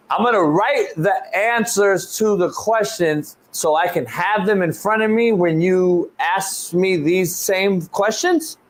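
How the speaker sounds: slow, spelled-out disbelief; incredulous. Retold or imitated. Coach repeating the HR lady's rule back to her, slow and incredulous. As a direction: drag it out like you can't believe the request. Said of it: "That's insane".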